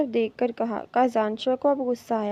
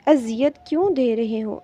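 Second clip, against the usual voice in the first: crying; 2 semitones higher, 4 dB louder than usual. A narrator's reading. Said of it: "روتے ہوئے کہا تھا".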